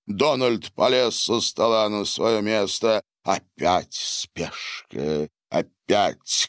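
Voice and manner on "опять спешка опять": disapproving. A narrator's reading. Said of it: "качал головой Синдзо".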